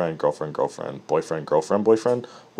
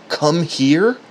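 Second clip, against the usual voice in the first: mild mock yell; 6 semitones higher than usual. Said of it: "yelling at the weight".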